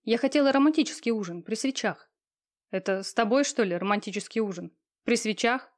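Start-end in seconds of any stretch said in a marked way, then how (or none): 2.7-5.7 mocking. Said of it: "Голос Кирюши прозвучал насмешливо".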